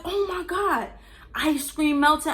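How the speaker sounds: high, near-crying wail about the ice cream; panicked squeal. Retold or imitated. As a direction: cry it out in a panic. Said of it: "I'm panicking".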